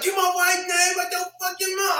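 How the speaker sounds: high, yelled threat, mocking the famous actor; Will Smith snapping at the Oscars crowd, shouted high; Will Smith shouting. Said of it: "He's like".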